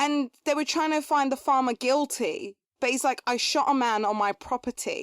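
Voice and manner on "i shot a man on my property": usual speaking voice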